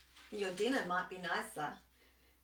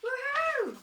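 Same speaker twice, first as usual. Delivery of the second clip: high, delighted dingo cheer; gleeful dingo; 4 dB louder than usual. Acted. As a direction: crow over the catch like a cheeky dingo. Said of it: "He's going".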